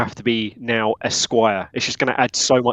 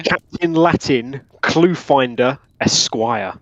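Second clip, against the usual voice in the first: grand announcement; much slower than usual. Acted.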